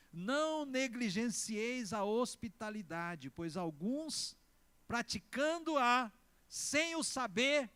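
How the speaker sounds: slow, deliberate Bible reading; scripture reading. Real, not acted. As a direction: read the verse out slowly, phrase by phrase.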